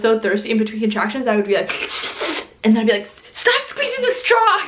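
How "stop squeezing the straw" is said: high, slow, laughing mock scold; hammed-up cranky plea through a laugh; mock snappy demand. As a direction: bark it out half laughing at yourself. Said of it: "I was kinda mean".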